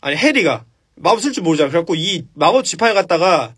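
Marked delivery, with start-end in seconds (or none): none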